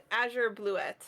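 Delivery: Azure said AZH-er, then blu-ET; different Azure pronunciation. Real, not acted. Reading the flower name back, Azure said AZH-er. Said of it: "you say Azure different".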